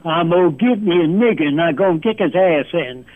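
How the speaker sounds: lightly imitated Southern US accent. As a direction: put on a bit of a Southern accent. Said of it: "you might speak and say things like this".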